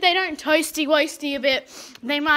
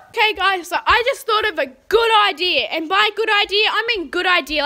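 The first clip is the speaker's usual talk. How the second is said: quick, loud and eager; excited; 3 semitones higher, 5 dB louder than usual. Real, not acted. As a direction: rush it out with excitement. Excited new idea.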